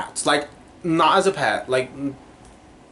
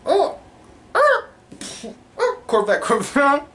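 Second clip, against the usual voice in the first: excited; 12 semitones higher than usual. Real, not acted. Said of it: "spots a Corvette, excited".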